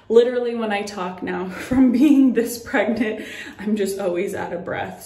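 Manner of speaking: chuckling while short of breath; amused, breathless, half-laughing; laughing breathlessly. Real, not acted. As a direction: laugh through the words, a little winded.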